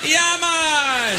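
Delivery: high, drawn-out mock yell; drunk heckler's yell. Drunk lady heckling on, high imitated yell. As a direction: imitate a drunk woman hollering, high and held. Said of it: "she yelled out".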